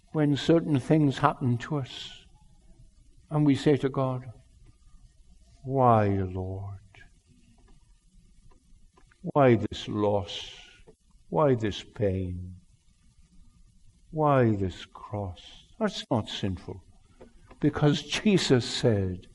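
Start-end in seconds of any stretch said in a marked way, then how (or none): 5.6-15.4 hushed pleading. Acted. Believer's anguished question to God.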